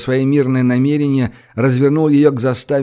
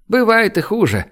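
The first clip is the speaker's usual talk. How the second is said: higher-pitched consoling remark; mild sympathy, voice lifted; sympathetic; 8 semitones higher than usual. A narrator's reading. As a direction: console him gently. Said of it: "сочувственно кивнул Родионов".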